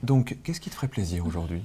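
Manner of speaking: put-on breathy, airy kids magician voice; lightly voiced showman host; Jacques Martin. Shown as a demonstration. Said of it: "ça fait un peu Jacques Martin".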